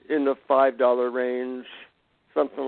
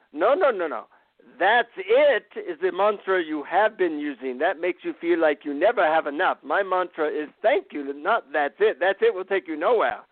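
put-on guru correcting him in a lightly done Indian accent, pitched higher; 4 semitones higher than usual. Guru explaining the real mantra, light Indian accent. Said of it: "in his Indian accent".

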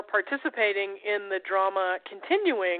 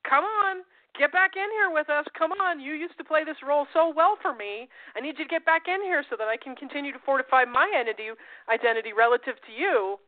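mock pleading, pitched up at first; coaxing; 4 semitones higher than usual. Others trying to enlist you back in, coaxing. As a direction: wheedle someone to come back.

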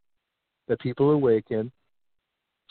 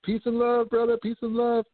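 higher, airy peace-and-love hippie voice; mock hippie; 9 semitones higher than usual. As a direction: play a dreamy hippie. Maskless people mocked as hippies.

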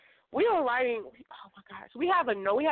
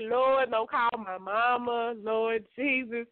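mock pleading; slower than usual. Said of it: "I'm like".

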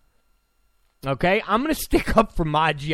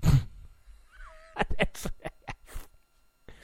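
high, stretched laughing squeal; 8 dB quieter, much slower than usual. Real, not acted. Cracking himself up at his own joke, high laughing squeal. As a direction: squeal the line through laughter.

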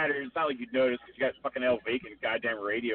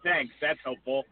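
sarcastic; slower than usual. Retold or imitated. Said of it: "I hope that was sarcasm".

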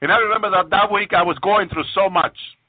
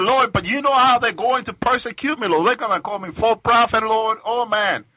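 higher-pitched, pleading objection; retold anxious protest; 5 semitones higher than usual. Retelling his protest to the Lord about persecution, pleading. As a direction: plead your worry, re-enacting it.

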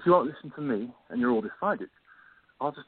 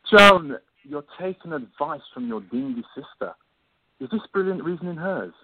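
indignant outburst; 5 dB louder than usual. Acted. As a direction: blast her for listening to her sister. Scorns advice from her sister.

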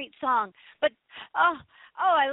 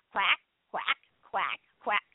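spaced-out spoken quacks; simple duck-call imitation; 6 semitones lower, slower than usual. Shown as a demonstration. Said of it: "Do you wanna hear my duck sound".

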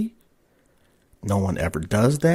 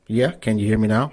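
ordinary talk

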